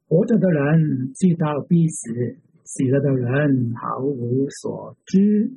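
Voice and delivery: measured reading aloud with pauses between phrases; slow scripture reading. Real, not acted. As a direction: read it out slowly, phrase by phrase. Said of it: "慢慢地读这一章".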